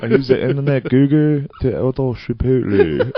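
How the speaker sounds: put-on high, loud caricatured Asian accent; mock Asian accent. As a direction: put on a silly Asian accent to get a laugh. Mocking the foreign student's speech.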